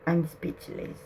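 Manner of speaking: unvoiced awed whisper, very soft. Real, not acted. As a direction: breathe it out in disbelief. Overwhelmed by the spirit message.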